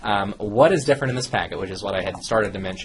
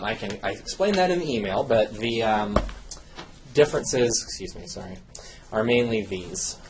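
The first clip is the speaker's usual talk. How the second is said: breathless after rushing around; out of breath. Real, not acted. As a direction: speak while catching your breath. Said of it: "I'm catching my breath".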